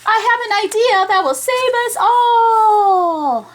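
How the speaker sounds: high, loud announcement of a plan; excited idea. Acted. Arnold telling the class his big idea, high and loud. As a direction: proclaim it like a hero.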